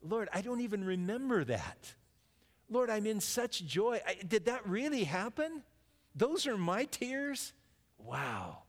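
a believer amazed and overjoyed before the Lord; joyful amazement. Pretend. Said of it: "And you go".

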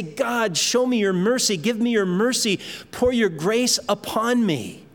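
lightly acted appeal for mercy; pleading prayer. A believer driven to God asks for mercy, pleading.

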